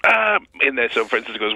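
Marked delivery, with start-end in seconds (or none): 0.1-0.4 Mad Dog voice. Retold or imitated. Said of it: "He goes".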